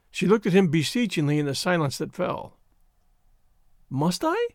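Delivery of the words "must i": very high, small rising plea; timid quaver. A narrator's reading. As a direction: ask it timidly, pitched right up. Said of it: "she quavered".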